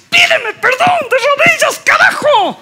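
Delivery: put-on high, bossy demanding girlfriend; hammed-up diva voice; high mock demand. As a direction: squeak out the real demand. Decoded meaning, high voice.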